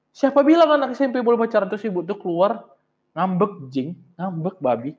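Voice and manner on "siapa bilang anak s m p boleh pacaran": quick, higher-pitched mock scolding; retold angry teacher. Teacher scolding pupils for dating, mildly angry imitation. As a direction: imitate a teacher's fast, indignant challenge. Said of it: "Terus ibu tuh marah lah".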